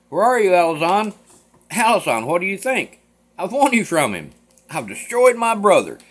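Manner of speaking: put-on gleeful bragging to the girl; excited boasting. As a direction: crow over your victory. Nicholas boasting after the fight.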